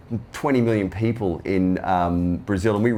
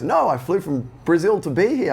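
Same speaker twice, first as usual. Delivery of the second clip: high-pitched mock Brazilian accent; bad Brazilian accent; 7 semitones higher than usual. Fan explaining his long trip, bad Brazilian accent. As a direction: badly imitate an eager Brazilian fan. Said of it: "trying to do a bad Brazilian accent".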